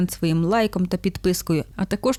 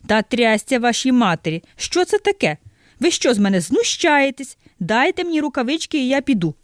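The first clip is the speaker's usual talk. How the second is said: exasperated outburst; 5 semitones higher than usual. Acted. Customer loses his temper.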